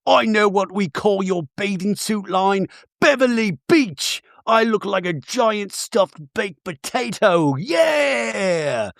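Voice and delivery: slow, hammed-up impersonation rising to a long final cry. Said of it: "P K, we cut to him".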